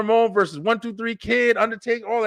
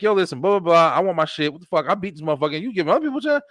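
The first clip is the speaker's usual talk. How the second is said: hood tough talk; much faster than usual. Retold or imitated. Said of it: "that straight up hood shit".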